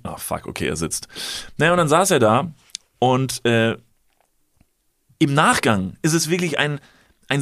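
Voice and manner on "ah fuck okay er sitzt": resigned mutter. Retold or imitated. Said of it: "dass er sich gedacht hat".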